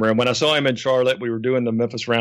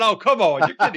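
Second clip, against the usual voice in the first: higher-pitched retold protest; disbelieving; 7 semitones higher than usual. Manager doubts the wrestler's tripping story, mildly incredulous. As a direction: scoff at it, pitch lifted.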